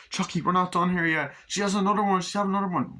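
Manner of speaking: high, urgent retold voices; urgent alarm. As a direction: pitch it up in mock alarm. Birth scene, second baby coming.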